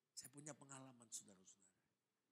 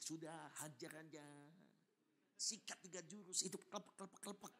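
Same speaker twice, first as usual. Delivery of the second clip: tempting devil. Acted. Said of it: "Setan bisik".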